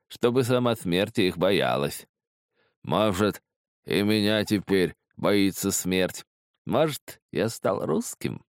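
high, slow, quavering drawl; rattling, lisping voice. A narrator's reading. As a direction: list them slowly in a lisping quaver. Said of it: "дребезжащий, слегка шепелявый голос". (высокий дребезжащий голос, шепелявя)

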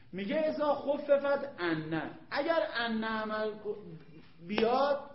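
slow, loud, stressed rule; emphatic rule. Shown as a demonstration. Teacher stresses the rule so students listen, slow and loud. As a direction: hammer the grammar rule home. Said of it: "گوش کن، گوش کن،".

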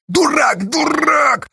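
high desperate yell of "дурак"; shouting. A narrator's reading. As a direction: scream it at him in despair. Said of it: "закричала Сташа".

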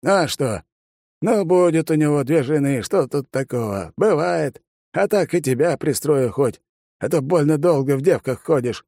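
put-on crafty old man pressing about the wedding; sly old man. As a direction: tease like a mischievous granddad.

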